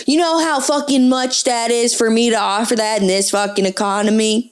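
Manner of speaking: put-on indignant fuckboy with an Italian accent; Italian-accented wounded entitlement. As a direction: rant as a spurned suitor with an Italian lilt. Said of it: "Italian accent for the fuckboy".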